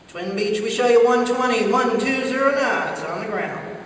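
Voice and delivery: measured radio read-back, slowing at the end; controller voice. Retold or imitated. Controller answering the Bonanza without emotion, official voice. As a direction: imitate an official controller hiding any annoyance. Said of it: "he's not gonna say that".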